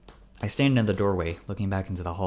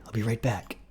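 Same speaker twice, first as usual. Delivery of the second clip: whispered reassurance before slipping away; under the breath, secretive; hushed whisper; 4 semitones higher than usual. A narrator's reading. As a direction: whisper it quickly to a companion. Carl sneaks off, urging quiet.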